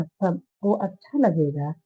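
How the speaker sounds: सबको leaned on, the line said slowly; stress on सबको. A narrator's reading. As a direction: push the word सबको, slow and coaxing. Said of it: "सबको शब्द पर जोर देते हुए बोली".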